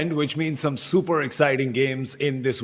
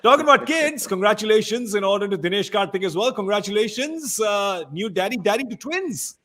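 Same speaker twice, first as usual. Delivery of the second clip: pitched up, bright and delighted; excited congratulations; 6 semitones higher than usual. Real, not acted. Host congratulating Dinesh on the twins, excited and high. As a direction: cheer him on as a new daddy.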